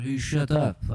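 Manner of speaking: annoyed mock-French retort; hammy indignant Frenchman; fake French accent. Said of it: "That was a fake accent".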